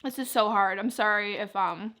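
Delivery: talking while chewing; mouth full. Real, not acted. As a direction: speak around a bite of food. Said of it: "I don't wanna talk with my mouth full".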